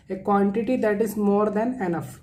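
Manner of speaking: slowly dictated definition; slow classroom dictation. Shown as a demonstration. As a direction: read it slowly so they can write. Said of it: "teacher dictates definition slowly".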